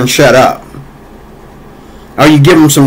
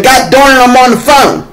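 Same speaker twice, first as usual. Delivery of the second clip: imitating a fed-up parent, pitched much higher; mock annoyed snap; 10 semitones higher than usual. Lazy babysitter snapping at a screaming child, mock exasperated. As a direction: throw it off as an irritated parent cut short.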